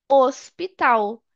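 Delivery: "hospital" in Portuguese, starting straight on the O; slow "hospital" with the H left silent. Shown as a demonstration. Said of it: "Esse H fica mudo".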